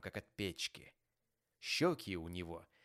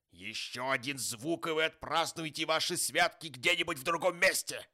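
angry threat; 8 semitones higher, 8 dB louder than usual. A narrator's reading. Scrooge warning his clerk of dismissal, angry. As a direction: threaten with mounting force.

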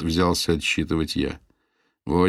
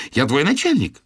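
loud indignant outburst; 8 semitones higher, 4 dB louder than usual. A narrator's reading. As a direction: protest in outrage. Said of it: "возмутилась Ирис".

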